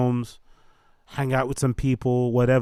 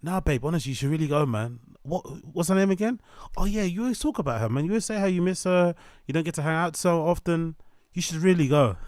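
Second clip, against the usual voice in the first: lightly voiced sly boyfriend, higher and eager; a hint of a scheming partner nudging her out; fake-encouraging boyfriend; 5 semitones higher than usual. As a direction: coax her out the door with fake concern. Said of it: "You're like".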